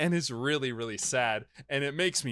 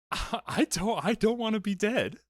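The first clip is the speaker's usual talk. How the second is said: mock pleading wife; 2 semitones higher than usual. Retelling the dying wife's plea, mock tearful. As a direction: beg him to remember you, playfully. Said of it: "she's like".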